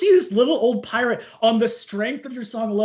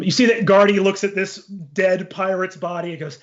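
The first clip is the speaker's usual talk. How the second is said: ordinary talk, nothing marked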